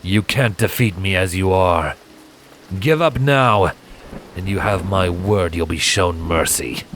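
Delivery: lightly voiced assassin, sure of his win; confident. Silent taunts wounded Scarlet to surrender, confident. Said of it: "Silent told her, confident".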